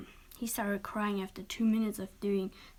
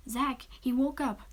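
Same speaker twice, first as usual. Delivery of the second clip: whining yell; 4 semitones higher, 4 dB louder than usual. A narrator's reading. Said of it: "He ye-, he yelled towards the door with a whining voice".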